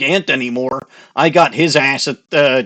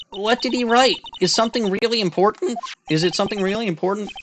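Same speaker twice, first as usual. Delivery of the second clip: fast, higher eager questions; eager high girl voice; 7 semitones higher, faster than usual. Acted. Sidekick eagerly asks about the note, high and fast.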